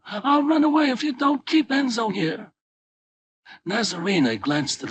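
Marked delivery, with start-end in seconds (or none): 0.1-2.5 screaming at father. Acted. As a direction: shriek it at your father in defiance. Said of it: "she screamed at her father".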